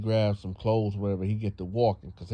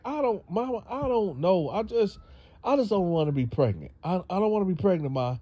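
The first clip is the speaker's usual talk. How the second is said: put-on whiny teen daughter; 9 semitones higher, faster than usual. Daughter whines to mother.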